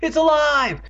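high, loud horrified wail; scream. A narrator's reading. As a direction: scream it in terror, stretched out. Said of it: "Andy screamed".

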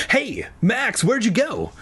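high-pitched worried little brother; lightly acted fright, voice pitched well up; mildly frightened. A narrator's reading. Little brother has lost sight of Max, high and mildly frightened. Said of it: "sounding fri-, frightened again".

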